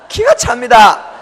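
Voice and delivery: loud laughing exclamation, slowed; exasperated laughing shout; laughing disbelief. Real, not acted. Laughing at absurd mistranslation.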